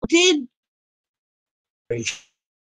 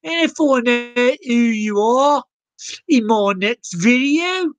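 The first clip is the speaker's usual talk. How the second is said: put-on Aussie accent. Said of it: "I don't know why I'm doing this accent".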